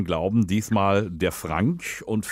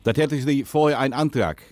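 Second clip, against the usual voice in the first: put-on Dutch accent, lisping. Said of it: "rede, lispeln und Holländisch".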